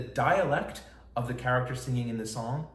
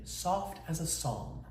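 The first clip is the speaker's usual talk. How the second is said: soft and slow; 3 semitones higher, 7 dB quieter, slower than usual. Shown as a demonstration. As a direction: say "soft as a psalm" softly and slowly, letting it fade. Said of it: "The words sound like what they mean".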